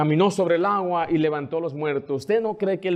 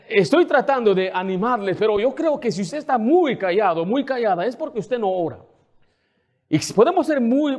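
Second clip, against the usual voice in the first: usual speaking voice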